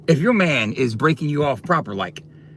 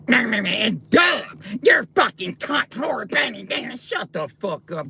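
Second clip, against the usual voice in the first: higher, shouted insults; yelling at chat; 5 semitones higher, slower than usual. Real, not acted. Streamer yelling at a commenter named in chat, shouted insults. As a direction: shout him down, name first.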